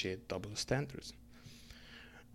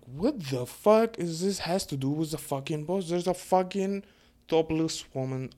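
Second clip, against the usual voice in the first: higher and louder, incredulous; outraged retort; 6 semitones higher, 4 dB louder than usual. Retold or imitated. Answering online accusations, outraged and loud. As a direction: fire it back at them.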